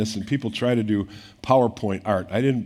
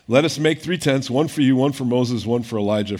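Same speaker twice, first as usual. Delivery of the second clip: louder, urgent blurt of a flustered Peter; 4 dB louder than usual. Retold or imitated. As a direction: say it louder, like a rattled man talking fast. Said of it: "and Peter's like".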